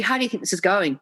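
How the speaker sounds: knowing, assuming tone; leading question. Shown as a demonstration. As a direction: ask as if you already know. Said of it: "There's an assumption I already know the answer".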